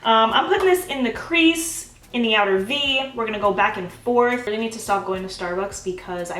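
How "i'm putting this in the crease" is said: usual speaking voice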